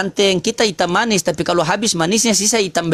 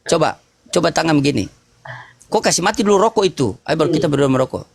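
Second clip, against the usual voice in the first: ordinary delivery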